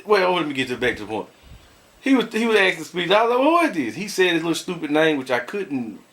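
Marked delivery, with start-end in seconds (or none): 3.4-3.9 demanding. Retold or imitated. Confronting caller on phone.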